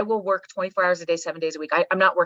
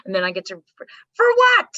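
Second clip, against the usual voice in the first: mock a clock-watcher, then burst out; retirement countdown person; 3 semitones higher than usual. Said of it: "and they're like".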